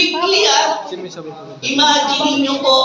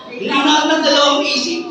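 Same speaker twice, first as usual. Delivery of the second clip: quick repeat; 3 semitones higher, faster than usual. Shown as a demonstration.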